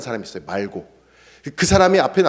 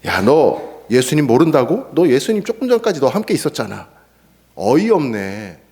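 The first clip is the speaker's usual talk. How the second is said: a bystander scorning Peter's denial; scornful mockery. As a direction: scoff at him in disbelief. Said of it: "이렇게 경멸하면서 조롱하면서".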